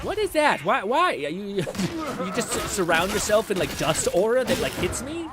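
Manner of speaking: loud, high disbelief; outraged shout. Real, not acted. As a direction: rant at the enemy in shock. Outraged at enemy attack.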